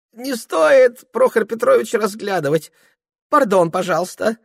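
put-on high, fussy voice of a drunk clerk dodging; flustered young clerk. Ilya pleading. (высокий суетливый голос смущённого приказчика)

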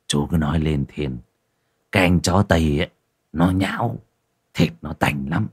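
lightly played tavern keeper complaining about hard times; a hint of a boozy village host; lightly voiced innkeeper. Narrator voices Thịnh.

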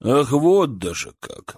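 протяжное, медленное возмущение; протянуть с негодованием; возмущённо. Acted. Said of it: "возмутился Николай". (возмущённо, нараспев)

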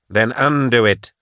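indignant command; angry demand. Acted. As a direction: demand it be reversed. Patience demands reversal.

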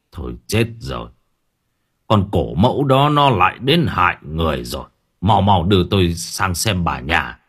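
put-on deep old healer, a touch of alarm; grim realisation, then hurry. Old healer seeing the centipede legs, alarmed and urgent. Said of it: "gương mặt thất kinh".

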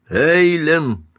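high, urgent shout of a name; hoarse call. A narrator's reading. Husband calls wife through locked door, hoarse shout. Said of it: "хрипло позвал Каупервуд".

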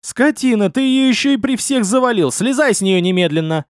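put-on jealous girl yelling at the man on the ground; yelling abuse. A narrator's reading. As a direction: yell at him in jealous rage. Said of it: "Рона ... вопила".

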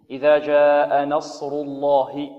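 نصر الله with a heavy lam after the damma. Shown as a demonstration. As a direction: recite slowly with a thick lam in الله. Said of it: "لفظ الجلالة هنا". (تغليظ اللام في نصر الله)

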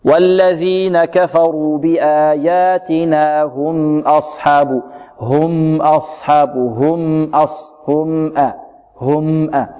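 slow chant holding the ميم of هم briefly; توسط الميم. Shown as a demonstration. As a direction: give the "m" in هم moderate length before أصحاب. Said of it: "فهكذا الميم نعطيها قدرها من التوسط". (ترتيل متأن مع توسط ميم هم)

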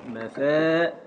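"مفا" held on its long final vowel; teacher's syllable demonstration; isolated metrical syllables. Shown as a demonstration. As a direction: sound out "مفا" alone, stretched. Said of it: "حركة، حركة".

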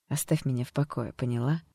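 low, soft and cold; serious warning. Acted. Alter ego warning the doctor, cold and serious. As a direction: drop the laughter, warn her coldly. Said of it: "сказала серьёзно".

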